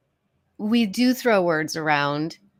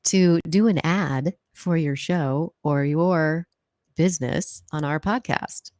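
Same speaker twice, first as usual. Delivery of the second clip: sultry narrator; slower than usual. Pretend. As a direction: purr it like a velvet voiceover. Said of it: "Wow, that sultry voice".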